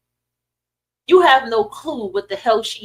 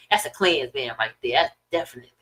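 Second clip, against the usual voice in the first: lightly voiced older woman; 9 semitones lower, 5 dB quieter, faster than usual. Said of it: "She's like".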